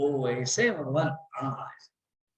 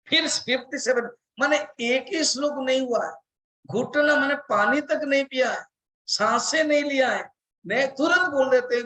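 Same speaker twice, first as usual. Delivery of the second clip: higher, quick indignant complaint; mock exasperation; 6 semitones higher than usual. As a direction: rattle it off as if fed up. Mock complaint about Krishna.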